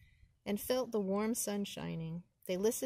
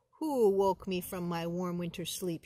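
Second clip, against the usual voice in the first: snarling bear; 5 dB louder than usual. Acted. A woken bear snarling at whoever disturbed him. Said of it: "he snarled".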